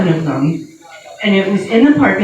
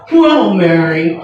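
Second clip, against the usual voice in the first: doctor voice; 4 dB louder, slower than usual. Retold or imitated. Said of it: "all my doctors have the same voice".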